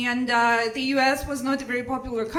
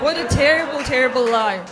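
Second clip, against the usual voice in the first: exasperated shout; 7 dB louder, faster than usual. Retold or imitated. Despairing about herself, retold.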